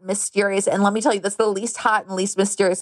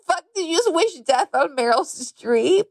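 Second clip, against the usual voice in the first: retold shock; 7 semitones higher than usual. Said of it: "I was like".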